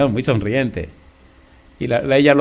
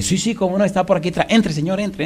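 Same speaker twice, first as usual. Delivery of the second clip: higher, overly polite host; husband eagerly inviting the pastor in; eager welcome; 5 semitones higher than usual. Retold or imitated. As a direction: gush a bit at the guest.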